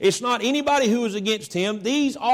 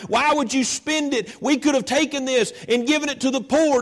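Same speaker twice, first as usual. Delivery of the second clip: raised, higher, indignant scolding; angry disciples; 3 semitones higher than usual. Retold or imitated. Preacher voicing furious disciples scolding the woman. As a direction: scold her for wasting the oil. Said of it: "They were angry. They were furious".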